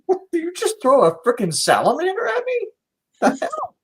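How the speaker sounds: high, indignant ogre squeal; outraged monster squeaking back. Acted. Ogre voiced reacting to salamander.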